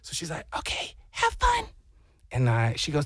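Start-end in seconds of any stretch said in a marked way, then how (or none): 0.6-1.7 high, sweet imitation of his wife; wife's voice. Wife letting husband wander the ship, high mock voice. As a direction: pitch way up to play the wife.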